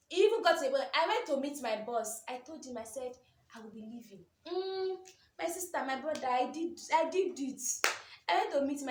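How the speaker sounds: loud, high, animated telling; excited. Real, not acted. Telling viewers she went to her boss, loud and thrilled. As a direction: build it up with excitement.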